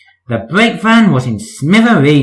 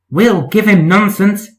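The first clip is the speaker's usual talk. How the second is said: giggling; 6 semitones higher than usual. Acted. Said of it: "giggled the trucks".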